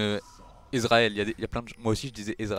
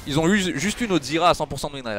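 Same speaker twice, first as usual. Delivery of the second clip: laughing boast; 5 semitones higher, 6 dB louder than usual. Real, not acted. Laughing boast about win rate.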